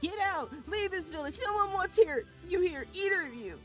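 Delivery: very high, loud enraged yell; furious scream. Acted. Demo yelling at Kaine and grandma, high furious scream. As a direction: scream them out of the village.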